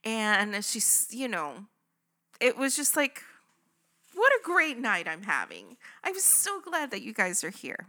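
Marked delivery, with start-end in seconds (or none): 4.1-7.8 lightly bubbly imitation of a happy hostess; happy, mock-bubbly welcome; bubbly greeting. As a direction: gush a little, imitating a cheerful server. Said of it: "She's bubbly, she's happy".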